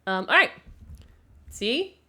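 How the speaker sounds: normal talking voice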